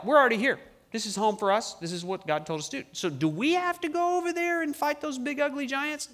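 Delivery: high, whining complaint about the giants; whiny reluctant tribesmen. Pretend. Tribes whining to Joshua about fighting giants. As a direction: whine like people who don't want to fight. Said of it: "these three tribes are like".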